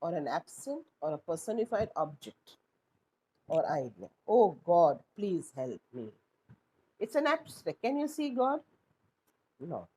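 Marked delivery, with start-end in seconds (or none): 4.3-6.1 loud cry of "Oh God" dropping to a low plea; pleading prayer. Shown as a demonstration. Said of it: "An apostrophe is direct address".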